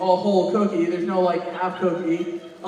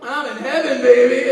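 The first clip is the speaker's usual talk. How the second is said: blissful purr; 3 semitones higher, 6 dB louder, slower than usual. Pretend. Imagined blissful reply on phone.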